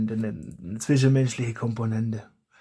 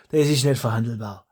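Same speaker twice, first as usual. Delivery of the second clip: laughing; 3 dB louder than usual. Real, not acted. Joking about his dialect.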